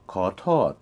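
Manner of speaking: "ko" rising, "tot" falling; rising then falling tones. Shown as a demonstration. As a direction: lift on "ko", drop on "tot". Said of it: "rising, then falling".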